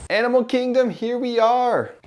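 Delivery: excited. Real, not acted. Arriving at the race park.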